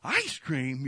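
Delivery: high surprised squeak on What; a thrilled kid who cannot believe it; kid's surprise. Retold or imitated. Children hearing dad offers ice cream, surprised. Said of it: "we were like".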